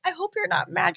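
high, timid retold plea; nervous apology. Wrestler to her idol about borrowed gear, high nervous apology.

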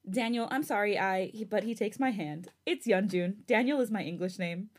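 read-aloud fan fiction narration; story narration. A narrator's reading. Host reading a new chapter to listeners, story narration.

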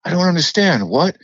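high-pitched, repeated puzzled questions; baffled American listener. Retold or imitated. Americans failing to understand a British speaker, baffled mimicry. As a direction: mimic someone who cannot understand the accent, pitch climbing. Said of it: "so that you don't have to keep hearing".

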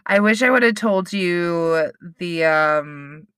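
muffled behind a hand; talking through cupped fingers; hand over mouth. Real, not acted. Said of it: "Why are you covering your mouth?".

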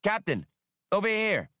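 high, excited call from a distance. A narrator's reading. Skinks calls the captain over to his find, excitedly. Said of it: "Skinks called over excitedly".

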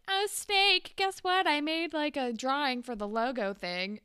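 put-on a teen girl excitedly pitching her drawing to her teacher; eager teen girl. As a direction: gush it like a proud kid showing off a drawing. She, like, goes up to Snake and is like.

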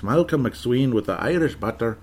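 lilting put-on Irish accent; playful Irish accent. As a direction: say it in a jokey Irish brogue. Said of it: "fun with me doing the accent".

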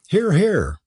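high, emphatic cheer; crying out approval. A narrator's reading. Host cheering on the curate, crying out. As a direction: call out hearty agreement. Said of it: "cried Mister Kent".

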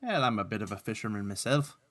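lightly put-on Irish brogue; a hint of Irish lilt; Patrick's Irish accent. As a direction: say it as an amateur stage Irishman. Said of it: "Speaking of bad accents".

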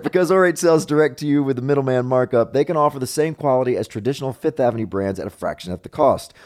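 upbeat opening, then easy sponsor pitch; chatty host-read commercial; podcast ad read. Acted. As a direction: read sponsor copy to the listeners.

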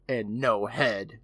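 very slow, deliberate punchline; acted sinister remark. Retelling Ingalls approaching with the cleaver, slow and ominous. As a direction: draw each word out ominously. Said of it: "Then Ingalls says".

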